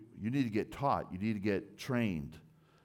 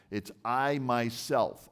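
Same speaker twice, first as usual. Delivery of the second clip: "I" leaned on hard, slow and louder; emphatic I; 3 semitones higher, 4 dB louder, slower than usual. Shown as a demonstration. To the congregation, slow, punched "I". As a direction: press down on "I myself", slowly. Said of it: "that's an emphatic I".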